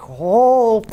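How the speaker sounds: high, loud fretting servant; Irish-ish butler squeaking oh no; panicked butler. Acted. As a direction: flap like a frightened butler. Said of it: "he's like".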